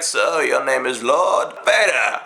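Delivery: low, slow mock sinister tone; a hint of a scheming emperor; lightly voiced Palpatine. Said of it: "And he's like".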